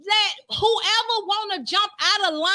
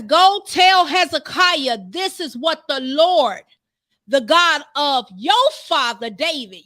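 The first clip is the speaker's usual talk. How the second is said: booming proclamation; 6 dB louder than usual. Acted. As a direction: thunder it out like a prophecy. Preacher voicing God's command.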